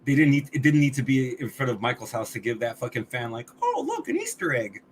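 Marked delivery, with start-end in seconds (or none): 3.6-4.8 high, gushing mock fan voice; squealing fake delight; mock excited fan. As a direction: sneer it like a delighted fanboy. Mocking a fan's reaction.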